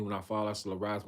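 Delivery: just skim "fall" and "arise" quietly; quick quiet reread. Acted. Preacher rereading the verse for himself, soft and quick. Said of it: "I'm rereading that".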